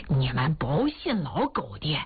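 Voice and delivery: old man ribbing his friend in front of everyone, mock gossip; teasing jab. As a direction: needle him with a grin in the voice. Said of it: "看哭老头儿就又调侃说".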